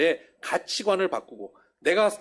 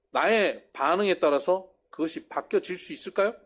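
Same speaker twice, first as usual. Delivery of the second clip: normal talking voice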